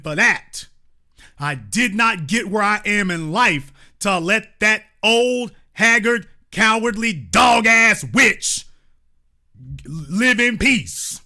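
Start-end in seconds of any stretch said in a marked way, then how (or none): 1.4-11.2 slow, drawn-out furious insult; angry slow insult. Real, not acted. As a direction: spit each insult out slowly.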